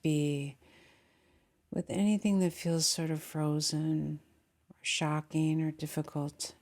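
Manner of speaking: calm meditation guide with long pauses; unhurried guiding voice, settling listeners into the body; guided meditation. Real, not acted. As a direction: lead them gently inward, leaving long silences.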